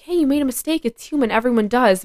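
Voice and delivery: encouraging. Retold or imitated. Encouraging a teammate at softball.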